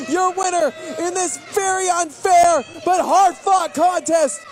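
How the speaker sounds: booming ring announcer call. Acted. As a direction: announce the winner to the arena.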